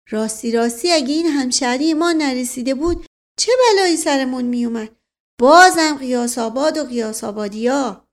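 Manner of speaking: high, loud, admiring exclamation; excited folksy servant; servant chiming in. Acted. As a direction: gush eagerly about a fellow townsman.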